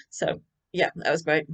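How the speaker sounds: talking through hiccups; words broken by small hiccups. Real, not acted. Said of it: "I've got hiccups for some reason".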